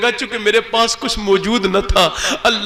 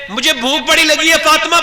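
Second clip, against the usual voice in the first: raised calling voice, higher and louder; calling out to Fatima; 8 semitones higher, 6 dB louder than usual. Retold or imitated. Ali calling into the house for Fatima, raised call. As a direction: call across the house to his wife. Husband calling wife for food.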